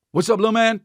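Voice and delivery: put-on high sing-song hello to a child; high baby-talk greeting. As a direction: greet a little kid brightly. Fishmonger greeting toddler.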